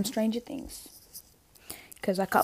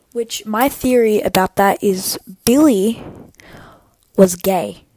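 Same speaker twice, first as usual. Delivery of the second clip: whispering; 9 dB louder than usual. Real, not acted. Confiding a fan theory.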